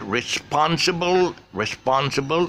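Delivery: "responsible" with PON stretched and high; stress on the second syllable. Shown as a demonstration. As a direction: slowly model responsible, leaning hard on "spon". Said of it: "the stress syllable is on response".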